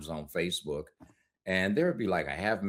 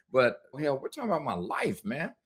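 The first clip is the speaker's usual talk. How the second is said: higher and faster, inner panic breaking through; sudden alarm; 7 semitones higher than usual. Retold or imitated. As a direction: jump up in pitch as the fear hits. Retold inner alarm after clinical calm.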